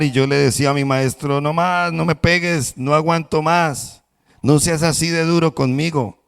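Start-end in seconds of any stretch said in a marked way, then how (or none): 1.4-6.2 higher, pleading voice of the beaten cup; pleading clay cup. Acted. Cup begs its master to stop, higher pleading. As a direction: beg the master to stop hitting.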